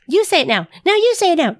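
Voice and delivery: high, rising encouragement, climbing on the second line; pumped-up coaching. Shown as a demonstration. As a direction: hype each student to take a turn. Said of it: "get them pumped up".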